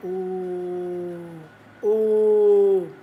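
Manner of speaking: two long oohs, building in volume; drawn-out ooh. Retold or imitated. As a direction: imitate a swelling, sustained ooh. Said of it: "now I'm going there going".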